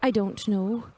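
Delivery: lightly voiced hesitant young traveler, quick in bursts; a hint of a nervous novice; unsure young Agnar. Novice explaining she awaits someone unknown, mildly unsure.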